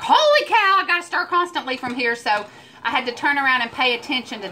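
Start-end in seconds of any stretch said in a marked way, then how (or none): 0.0-2.1 high, loud holy cow, then settling; retold alarm. Recalling the stir constantly instruction, mock alarm. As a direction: replay the panic of reading the recipe. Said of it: "I was like".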